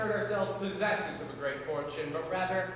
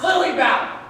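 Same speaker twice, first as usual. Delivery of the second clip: louder, higher snap of her name; sharp warning shout; 6 semitones higher, 10 dB louder than usual. Acted. Sibling answering Lily Bell's refusal, commanding shout.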